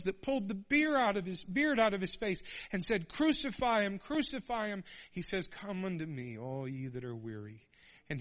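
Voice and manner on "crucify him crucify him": crowd shouting. Retold or imitated. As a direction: call it out like an angry mob. Crowd crying out crucify.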